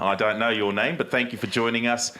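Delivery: playfully overdone Australian accent; ocker Australian accent. Shown as a demonstration. Host thanking the moustache winner for joining, in a broad Australian accent. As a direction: keep up the broad Aussie accent. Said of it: "my very ochre Australian accent".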